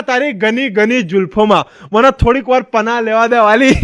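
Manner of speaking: slow, drawn-out shayari, lover's plea; a hammed-up romantic couplet; mock lover reciting poetry. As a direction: recite the line like a lovesick poet. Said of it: "શાયરી શીખીને આવ્યો".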